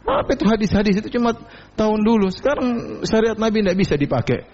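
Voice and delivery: high, fast dismissive scoff; imitating a sneering critic; scornful mocker. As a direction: rattle it off like a scoffer waving the rules away.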